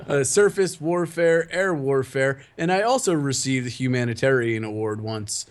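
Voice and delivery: lightly voiced stiff Navy phone answer; mock formal phone greeting. Imagining Pickle answering work phones with Navy rank, mock formal. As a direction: rattle off rank like a proud sailor. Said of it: "That would be pretty good".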